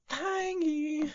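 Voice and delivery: mock New Zealand accent, high and drawn out. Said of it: "We have to say it with a New Zealandish accent".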